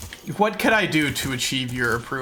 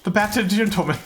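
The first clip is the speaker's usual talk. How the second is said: British hero; 5 semitones higher than usual. Retold or imitated. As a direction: proclaim it in a mock British voice. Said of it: "British word for bat".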